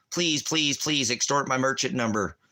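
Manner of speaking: high, whiny begging voice; mock pleading. Mocking a defendant who pleads out, high and whiny. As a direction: beg in a mocking, pitiful plea. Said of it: "And you plead out".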